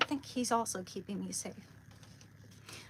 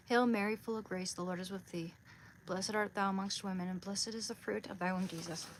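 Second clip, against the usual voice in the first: prayer. Real, not acted. Speaker recites the Hail Mary after the saint's prayer, praying. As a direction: recite a familiar devotion in even phrases.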